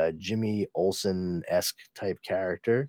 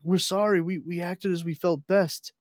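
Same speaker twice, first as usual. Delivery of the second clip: apologetic guards; 7 semitones higher than usual. Acted. Guards apologise to their ruler.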